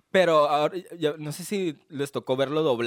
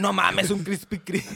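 mock amazed; 4 semitones higher, slower than usual. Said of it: "Yo así".

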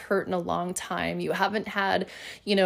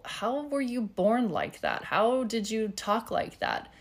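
higher-pitched quoted curiosity; mock puzzled questioning; 4 semitones higher, 4 dB quieter than usual. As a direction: imitate someone puzzled, pitch lifted. Voicing a curious onlooker's questions.

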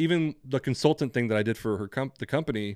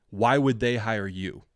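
slow, pointed challenge as retold; challenging; slower than usual. Interviewer questioning a consultant job on the resume, challenging. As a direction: imitate a sceptical interviewer pressing slowly. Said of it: "he kept challenging me".

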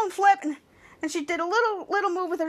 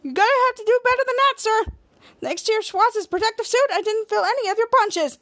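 smug; 5 semitones higher than usual. Retold or imitated. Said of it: "and said".

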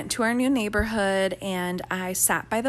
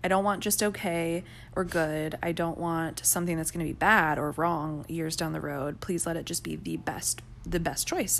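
earnest prayer; 2 semitones lower than usual. Retold or imitated. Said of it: "this was my prayer".

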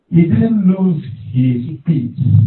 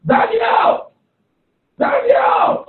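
anguished shout; much slower than usual. Acted. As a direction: cry out into the pit in anguish. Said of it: "and shout".

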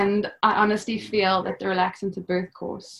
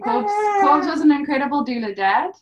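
tearful praise; 7 semitones higher, 5 dB louder than usual. Real, not acted. Mother crying as she praises her partner. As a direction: voice wobbling with tears, a little higher.

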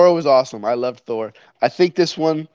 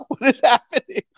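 imitating confused Allie; 11 semitones higher than usual. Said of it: "Allie's like".

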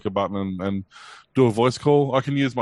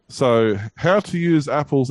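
mock awe; 3 semitones higher, 3 dB louder, slower than usual. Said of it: "I can't do it with a straight face".

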